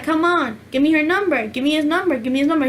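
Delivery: mildly impatient, rapid-fire nagging; impatient pestering. Retold or imitated. Girl nagging for his phone number, impatient. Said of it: "started getting a little impatient".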